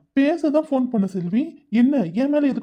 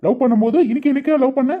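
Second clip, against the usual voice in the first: louder, shocked and indignant, rushing at the end; angry disbelief; 3 dB louder than usual. Acted. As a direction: fire back in outraged disbelief. Boyfriend hears breakup. (பிரிவைக் கேட்டு அதிர்ந்த கோபக் குரல்)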